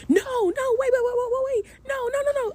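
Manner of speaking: a panicked woman begging her date to let her explain; panicked protest. Retold or imitated. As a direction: scramble to stop him, pitch way up. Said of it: "I immediately went".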